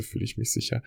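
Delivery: a quiet, safe whisper; hushed whisper. Real, not acted. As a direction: whisper it, almost breathless. Guided feeling exercise, calm reflection.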